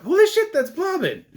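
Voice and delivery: loud, high-pitched shout of recognition; excited outburst. Retold or imitated. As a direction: blurt it out, thrilled and amazed. Reenacts excited recognition of actor.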